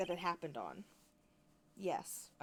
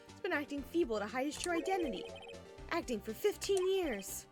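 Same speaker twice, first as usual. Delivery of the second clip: excited; 8 semitones higher, 3 dB louder than usual. Real, not acted. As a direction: drag out the reveal. Dramatic realization.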